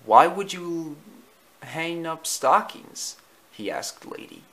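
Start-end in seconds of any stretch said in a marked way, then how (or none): 0.0-3.2 confused Tramp. Acted. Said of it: "Tramp looked confused".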